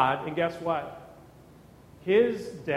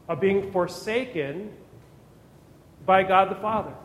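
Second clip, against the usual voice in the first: ordinary talk, nothing marked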